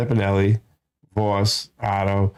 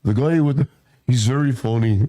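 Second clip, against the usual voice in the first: demonstrating an Irish accent; amateur Irish brogue. Shown as a demonstration. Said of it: "That was my Irish accent".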